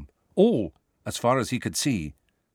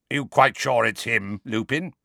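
gruff suspicious growl; 2 semitones higher than usual. Acted. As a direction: growl the question. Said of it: "he growled".

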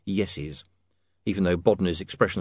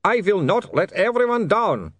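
high, loud, drawn-out vampire cry; screamed resolve; 10 semitones higher, 5 dB louder than usual. A narrator's reading. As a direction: declare it slowly in an anguished high accent. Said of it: "he screamed".

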